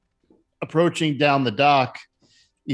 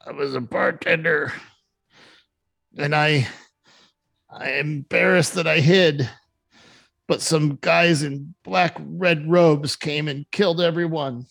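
a lightly raised, anxious barmaid recounting the attack; nervous bartender; 3 semitones higher than usual. Acted. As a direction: tell it like a shaken survivor still ashamed she hid. GM plays bartender Ella.

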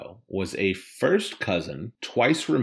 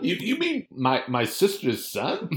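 mock reply; 10 semitones higher than usual. Acted reply in scene.

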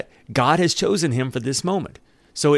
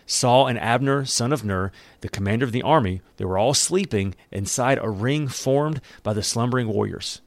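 measured story narration; scripture reading. Acted. Preacher reads a Bible story to the congregation, measured narration. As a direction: read the account aloud, evenly.

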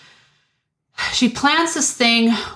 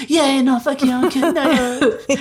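mocking laugh; 6 semitones higher, faster than usual. Mocking their conversation, laughing.

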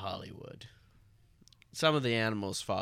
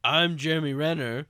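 loud quoted call; 5 semitones higher, 6 dB louder than usual. Retold or imitated. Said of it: "You said aloud".

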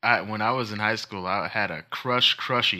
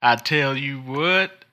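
drawn out; 3 semitones higher, 3 dB louder, slower than usual. Pretend. Catchphrase repeated with a drawn-out drawl.

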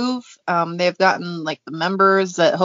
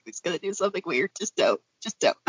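quiet dread; 7 dB quieter, faster than usual. Retold or imitated. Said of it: "I'm like".

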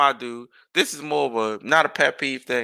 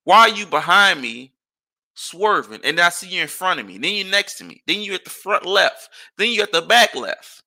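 retold road rage; 5 semitones higher than usual. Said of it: "ask this nigga".

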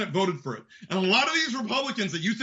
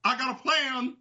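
Dutch impression; 3 semitones higher than usual. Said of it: "That is literally his gimmick".

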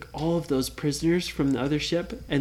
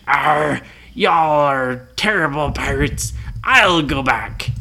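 gruff Blackbeard. Acted. Blackbeard scolds crew.

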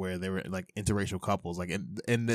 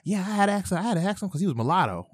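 higher, louder imitation of a woman chatting; woman customer; 11 semitones higher, 4 dB louder, faster than usual. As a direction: mimic her telling a friend, pitched up. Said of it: "and she's like".

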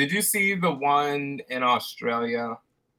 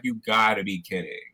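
lower-pitched retold Australian line; Australian accent; 3 semitones lower than usual. Manager coming out to the fighting shoppers, lower mock Australian accent. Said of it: "Is that your Australian accent?".

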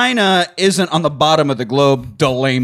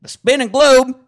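higher southern hick preacher; hick accent; 4 semitones higher than usual. Pretend. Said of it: "inbred, Hick".

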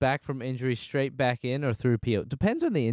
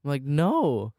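higher, louder exasperated denial; indignant protest; 6 semitones higher, 3 dB louder than usual. Real, not acted. Denying to listeners he is American, indignant. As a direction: stamp out the rumour.

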